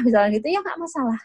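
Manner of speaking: normal talking voice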